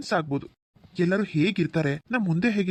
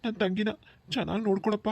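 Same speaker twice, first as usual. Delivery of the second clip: entrust a sister through tears; tearful brother handing over his sister; tearful pleading; 3 semitones higher than usual. Acted. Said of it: "ಕಣ್ಣೀರ್ ಹಾಕ್ಬೇಡಿ ಭವ".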